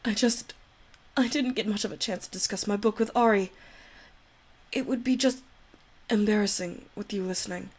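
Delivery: put-on soft, timid girl begging forgiveness; shy Yuri voice. Yuri begs Ari not to hate her, timid and pleading. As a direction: plead with him, nervous and apologetic.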